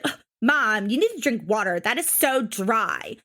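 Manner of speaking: mock disgusted daughter nagging Mom; lightly whiny, exaggerated swoops of complaint; imitating Amber. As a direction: mimic a cringy teenager scolding her mother. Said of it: "when people talk like that".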